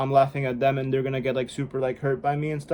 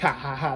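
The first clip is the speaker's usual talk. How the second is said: Luffy laugh. Shown as a demonstration. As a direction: lightly imitate an anime hero's laugh. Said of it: "the Luffy laugh from my anime".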